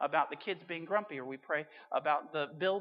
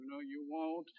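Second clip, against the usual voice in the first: much softer nervous aside; nervous dad; 3 semitones lower, 9 dB quieter, slower than usual. Retold or imitated. Dad anxiously contradicting Santa, quiet and nervous. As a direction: mutter it under your breath, worried. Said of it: "Dad's nervously going".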